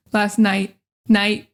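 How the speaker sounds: "night" with the final t held back; stop T. Shown as a demonstration. Teacher showing the ending, stop T. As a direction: cut night off on an unreleased t. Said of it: "Stop T".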